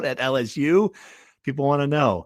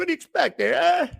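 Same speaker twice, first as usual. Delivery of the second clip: higher Jersey wiseguy shout; Jersey mobster voice; 14 semitones higher than usual. Pretend. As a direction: bark it like Paulie Walnuts. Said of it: "trying to do Paulie Walnuts".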